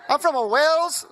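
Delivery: high mock Welsh slipping into Asian accent; botched Welsh accent. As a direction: attempt Welsh, land in caricatured Hong Kong. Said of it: "ends up in a Hong Kong".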